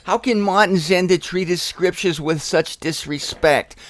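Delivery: lightly put-on voice of a scandalised objector; mock indignant critic. Preacher imitating someone shocked at his Bible handling, mock indignation. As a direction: play a disapproving critic, slightly hammed-up.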